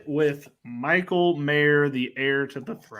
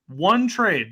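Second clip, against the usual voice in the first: One punched high and loud; insisting on One; stress on one; 6 semitones higher, 4 dB louder than usual. Real, not acted. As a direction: hit the word One hard, falling. Repeating the point in argument.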